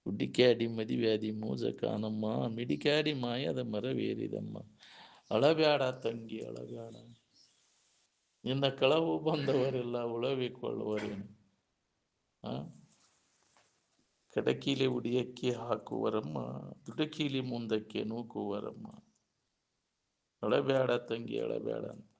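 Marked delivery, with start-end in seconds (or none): 0.0-11.4 slow, drawn-out verse line by line; verse recitation. Acted. Preacher quoting a verse to a grieving sister, slow recitation. 14.3-21.9 slow, drawn-out verse line by line; verse recitation. Acted. Preacher quoting a verse to a grieving sister, slow recitation.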